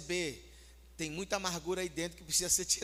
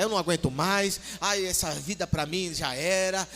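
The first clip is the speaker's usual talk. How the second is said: loud, hammed-up complaining; playacted exasperated rant; mock nervous outburst; 7 dB louder than usual. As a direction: wail loudly as if you've had enough. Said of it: "nervoso mesmo, sabe? Ô, nervoso".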